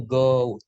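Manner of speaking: "goat" with o gliding into oo; pronunciation demo. Shown as a demonstration. Teacher repeating how kambing is read, model "goat". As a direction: say "goat" clearly as a model word. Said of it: "Cara bacanya kambing itu".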